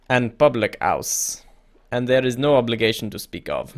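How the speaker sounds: put-on creepy emissary, lightly French-accented. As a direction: give a hint of French to a shady go-between. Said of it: "I don't know why I made him French".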